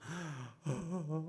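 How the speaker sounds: quiet mock sobbing gasps; imitated crying. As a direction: imitate children crying, breathy and soft. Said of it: "울고 있으면은". (아이들 울음을 흉내 낸 작은 흐느낌)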